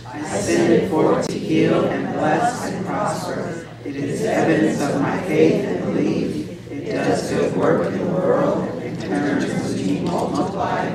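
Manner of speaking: slow, deliberate affirmation read together; measured and unhurried, leading the room word by word. Shown as a demonstration. Minister leading the congregation's offering affirmation, slow and deliberate. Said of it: "we're gonna say it slower than normal".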